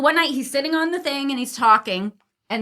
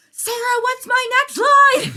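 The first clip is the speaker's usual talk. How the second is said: higher, slower playful callback; joking actor; 14 semitones higher, 8 dB louder, slower than usual. Retold or imitated. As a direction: tease the old stage manager. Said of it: "He was like".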